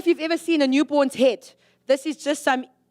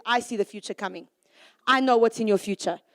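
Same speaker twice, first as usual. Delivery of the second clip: voicing God calmly; 4 semitones lower than usual. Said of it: "He says".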